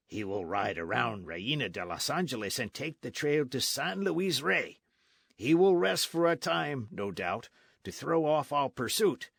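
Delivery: lightly voiced blunt soldier; a hint of a swaggering sergeant; sergeant Gonzales. Sergeant explaining the chase to Don Diego, lightly voiced.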